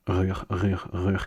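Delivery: "rur" drilled alone with French r; syllable on its own. Shown as a demonstration. Teacher drilling each syllable, "rur" said on its own. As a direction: repeat "rur" evenly, each one apart. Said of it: "say each syllable on its own".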